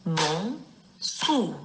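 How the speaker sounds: Mansour split as MAN, pause, SOUR; syllable by syllable. Shown as a demonstration. Teacher showing two syllables, Mansour broken into MAN and SOUR. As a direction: draw out each half of Mansour, MAN... SOUR. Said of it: "Il est composé de deux syllabes".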